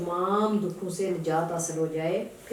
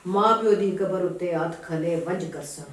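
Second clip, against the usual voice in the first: verse recitation; slower than usual. Acted. Reciter presenting the poet's plea to a listener, verse recitation. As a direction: declaim the verse, stretching the first phrase.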